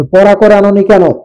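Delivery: a touch of a scolding teacher; angry teacher. Acted. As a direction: scold the student, mildly cross. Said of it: "শিক্ষক রাগবত স্বরে". (রাগী শিক্ষকের ধমক)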